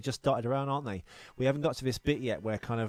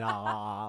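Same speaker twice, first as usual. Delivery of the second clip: imitated "ah" noises; 3 semitones lower than usual. Co-host acts out a Terminator being fed milk, imitated aahs. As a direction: go "aah" as the milk is poured in. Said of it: "going ... like that".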